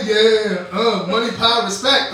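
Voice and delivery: mock cool rapper. Alone in the train corner, pretending to rap with swagger. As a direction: hype himself up like a tough rapper. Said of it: "trying to look like I'm a cool dude".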